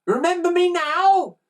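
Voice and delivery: put-on high, loud triumphant boy; called out. A narrator's reading. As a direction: call it out tauntingly from afar. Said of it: "called Ned".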